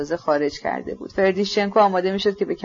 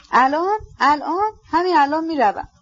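high, feverish questioning; agitated; 7 semitones higher than usual. A narrator's reading. Ippolit replying to the prince urging rest, agitated. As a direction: answer in a higher, agitated voice.

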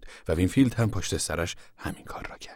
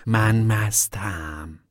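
mock drunk; much slower than usual. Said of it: "تلو تلو خوران ... آهسته راه رفت".

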